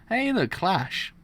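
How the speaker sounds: excited shout. Acted. Character spots the enemy.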